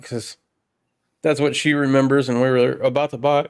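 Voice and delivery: talking through hiccups; hiccupping between words. Real, not acted. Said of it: "I got the hiccups".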